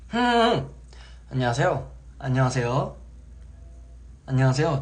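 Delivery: 목소리를 가다듬으며 또렷하게 반복하는 인사; 안녕하세요 연습하듯 또박또박; voice practice. Shown as a demonstration. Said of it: "제가 맨날 이랬어요". (전화 목소리를 연습하며 반복하는 인사)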